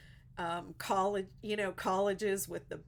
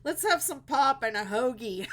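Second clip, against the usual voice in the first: words pushed out through real laughter, louder; laughing; 7 semitones higher, 10 dB louder than usual. Real, not acted. Joking with Pittsburgh viewers, laughing through the words. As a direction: crack up while saying it. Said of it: "I'm cracking myself up".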